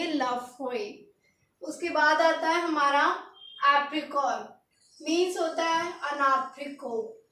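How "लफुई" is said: लफुई drawn out slowly and softly; slow soft French pronunciation. Shown as a demonstration. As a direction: say लफुई slowly and gently to copy. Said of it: "क्या बोलेंगे?".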